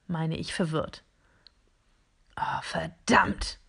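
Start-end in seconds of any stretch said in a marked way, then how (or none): 2.4-3.6 slow, whispered swear; whispered curse. Acted. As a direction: curse under the breath. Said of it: "flucht eins der Geräte".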